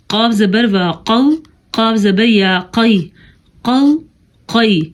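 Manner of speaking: قاف thick, from the back of the throat; heavy qaf. Shown as a demonstration. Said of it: "یہ موٹا قاف". (موٹا قاف)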